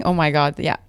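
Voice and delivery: talking through crunchy wafer; crunching wafer. Real, not acted. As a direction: mouth full of crunchy roll. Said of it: "sorry for the crunchy".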